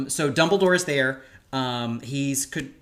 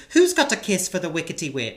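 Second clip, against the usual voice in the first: put-on chavvy British accent, higher pitched; 4 semitones higher, 3 dB louder than usual. Cohost quotes the blindfolded blonde, mock British accent. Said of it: "that's the only British accent I can".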